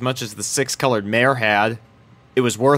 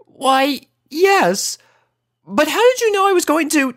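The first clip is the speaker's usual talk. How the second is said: high, refined lady voice; a prim unicorn lady; Rarity voice. A narrator's reading. Elder unicorn speaking to Rainbow, high and refined.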